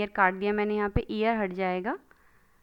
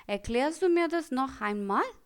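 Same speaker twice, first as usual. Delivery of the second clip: asking a friend; 4 semitones higher, much slower than usual. Shown as a demonstration. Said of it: "मैं question पूछ रही हूँ".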